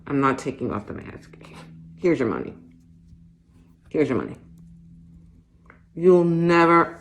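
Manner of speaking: flustered woman begging through a mask; embarrassed shopper. Acted. Masked shopper pleading with the clerk, flustered and mortified. Acts shopper in store monologue.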